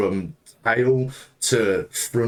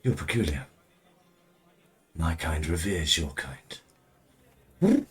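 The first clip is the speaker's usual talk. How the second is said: owl voice; 3 semitones lower, 5 dB quieter, slower than usual. Acted. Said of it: "as she's on Nox's shoulder".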